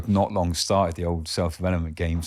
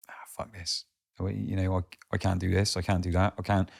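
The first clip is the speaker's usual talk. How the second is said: soft, hushed mock giving up; quiet deflated average Joe; defeated mutter; 6 dB quieter than usual. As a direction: sigh out the defeat under the breath.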